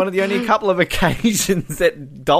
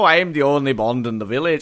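attempted Welsh accent, lower pitched; 5 semitones lower than usual. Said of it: "Who can do the best Welsh accent?".

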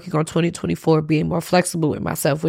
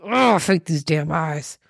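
slow, teary and choked; crying through the words; tearful frustration; slower than usual. Real, not acted. Host crying as tears interrupt her, tearful. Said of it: "my tears are interrupting".

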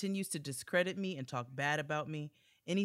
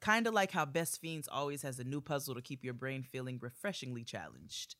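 upbeat sponsor read, selling the game. Acted. Host reading an ad to listeners, upbeat sales voice. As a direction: pitch the puzzle game like a commercial.

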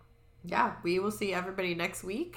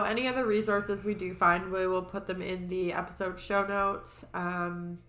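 nasal voice. Real, not acted. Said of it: "Sorry if I'm a little nasally".

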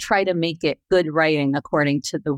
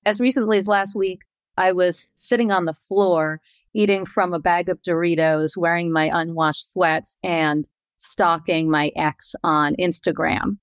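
juicy gossip. Shown as a demonstration. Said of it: "deliver it like juicy gossip".

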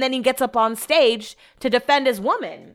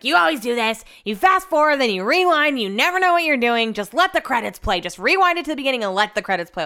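grouchy husband; 3 semitones higher than usual. Retold or imitated. Husband grumbles about fast-forwarding, mock-grouchy. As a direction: nag like a mildly irritated husband. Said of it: "God, grouchy".

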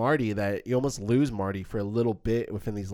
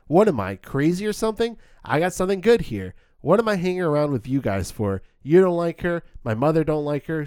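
raised, louder movie-character outburst, easing at the end; impassioned movie speech; 3 semitones higher, 4 dB louder than usual. Acted. Marty stops his friends' aimless talk, impassioned outburst. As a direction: quote Marty's big defiant speech with force. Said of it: "and he goes".

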